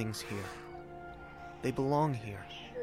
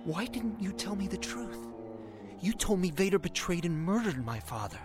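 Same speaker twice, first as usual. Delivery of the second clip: higher-pitched, reproachful protest; hurt accusation; 4 semitones higher than usual. Acted. Pupil accusing his mentor of hiding the truth, reproachfully. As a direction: confront the mentor who hid the truth.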